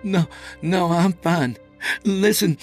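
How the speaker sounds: high, agitated reassurance turning insistent; urgent and frightened. A narrator's reading. Scott answering the officer's injury question, urgent and panicky. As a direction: brush off concern, then demand attention.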